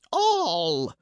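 high, slow rasping monster voice; rasping creature. Acted. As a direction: rasp it out like a greedy bird beast. Monster demands all wine.

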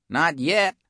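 a tough iguana cook sounding the alarm; high anxious complaint about food thieves; worried cafeteria lady. Acted. Missus Bagoong answers.

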